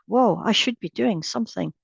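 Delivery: a slight pitch lift, as if jolted into action; body's startled urge. Acted. Meditation teacher voicing the body to a group, mildly startled. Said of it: "the body goes".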